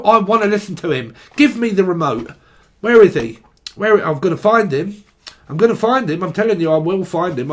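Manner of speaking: grab for the remote, hammed up; mock remote squabble. Acted squabble over the remote.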